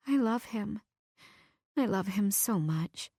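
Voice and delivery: soft, broken admission; tearful confession. Acted. Heartbroken girl admitting her love to herself, softly crying. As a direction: let it slip out through tears.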